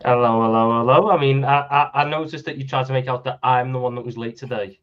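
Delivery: sounding muffled, as if through a wall; muffled mic. Real, not acted. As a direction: voice muffled by a bad laptop mic. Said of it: "you sound like you're muff-, you sound like you're s-, you're speaking through a spot".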